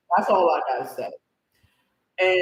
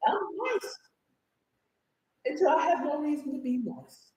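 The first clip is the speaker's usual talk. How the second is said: softer, higher quiet threat; soft warning; 6 semitones higher, 8 dB quieter than usual. Real, not acted. Warning viewers she can turn, softly menacing.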